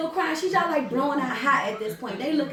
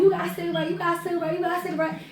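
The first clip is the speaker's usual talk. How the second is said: higher, quick repeated asking; rapid pestering; 4 semitones higher, much faster than usual. Retold or imitated. Kids asking everybody for a cigarette, rapid pestering. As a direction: ask in a higher, hurried run. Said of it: "We asking everybody".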